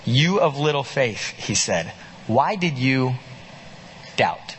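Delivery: a hint of a gentle Jesus; gentle rebuke.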